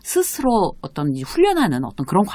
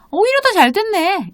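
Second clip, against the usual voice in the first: much higher, upbeat reassurance; acted nonchalant cheer; 13 semitones higher, 3 dB louder than usual. Telling a companion the closed restaurant is fine, upbeat and unbothered. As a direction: brightly make light of the setback. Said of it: "그렇게 아무렇지도 않게".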